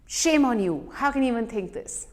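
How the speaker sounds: a touch of reproach, quickening at the end; critical inner voice. Acted. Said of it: "this critic will criticize us".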